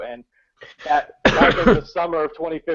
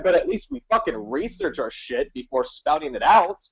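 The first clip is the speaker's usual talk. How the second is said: indignant, pitch somewhat raised; exasperated rant; 5 semitones higher than usual. Real, not acted. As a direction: finish the complaint with indignation. Exasperated rant at offended viewers.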